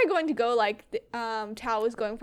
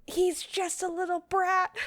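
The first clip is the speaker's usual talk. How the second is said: high put-on villain voice; Commander Red quote; 7 semitones higher than usual. Fan quotes Commander Red about Goku, in a high put-on voice. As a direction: complain in a raised cartoon-villain voice. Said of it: "Commander Red's like".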